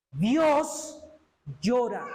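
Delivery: "Dios" alto y sostenido, pausa, luego "llora"; énfasis solemne. Real, not acted. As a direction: separa "Dios" de "llora" con una pausa y proclámalo. Predicador recalca el versículo. (énfasis solemne con pausa tras "Dios")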